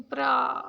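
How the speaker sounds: "प्रा" opened out fully, vowel held; wide-open first syllable. Shown as a demonstration. Teacher showing where stress falls, "प्रा" fully open. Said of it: "पी मैं पूरा खुल के बोल रही हूँ".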